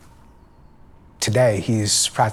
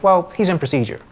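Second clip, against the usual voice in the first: mock a doctor stalling on the phone; evasive nurse voice; 8 semitones higher than usual. Female doctor repeats evasion.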